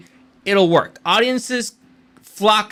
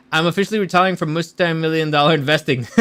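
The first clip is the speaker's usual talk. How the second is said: Frenchie impression; faster than usual. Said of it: "that's kinda who I was doing".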